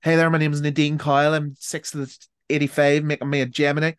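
Northern Irish accent impression; a singer. Singer giving her birthday and star sign, mock Northern Irish accent. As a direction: lightly imitate a Northern Irish pop singer introducing herself. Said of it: "I also love, like, the scandal of".

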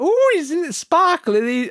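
high, drawn-out coo; gushing podcast host. Retold or imitated. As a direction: imitate her gushing, pitched right up. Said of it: "she went".

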